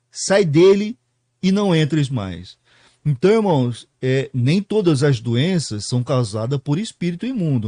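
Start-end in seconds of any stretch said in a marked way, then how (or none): 0.1-2.6 firm command. Acted. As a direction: cast it out firmly. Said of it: "É uma ordem". (ordem firme para o espírito sair)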